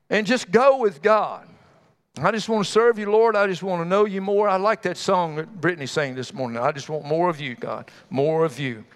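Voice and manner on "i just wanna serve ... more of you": tender prayer. Acted. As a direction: pray it gently like a song. Quoting a worship song.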